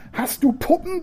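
very high, eager yell; child yelling. Acted. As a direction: yell the question across the radio. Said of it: "brüllt Sibyl".

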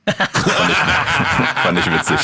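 high laugh through the words; cracking up mid-sentence. Real, not acted. Laughing at own quiz twist.

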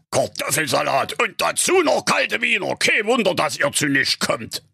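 high-pitched, scornful miser voice; irritated miser's griping; growling grumpily. A narrator's reading. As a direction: grumble and scold like an old skinflint. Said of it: "Da knurrte der Knöterich".

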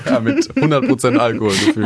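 lachend antworten. Real, not acted. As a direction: kichernd weitersprechen. Joke reply, laughing. (lachend einen Witz ergänzen)

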